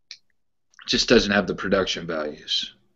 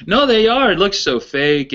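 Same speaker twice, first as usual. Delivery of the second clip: Pittsburgh accent impression; 10 semitones higher, 4 dB louder than usual. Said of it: "I'll try to do his accent".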